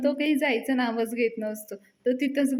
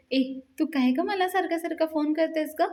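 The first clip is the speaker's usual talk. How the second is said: mildly annoyed, pitched higher; irritated; 5 semitones higher than usual. Acted. Palya scolds Payal for calling repeatedly, mildly irritated. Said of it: "तिच्यावर चिडतो आणि म्हणतो".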